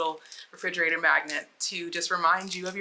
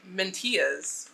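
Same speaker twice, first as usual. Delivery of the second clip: Spanish accent; slower than usual. Shown as a demonstration. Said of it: "like, a Spanish accent".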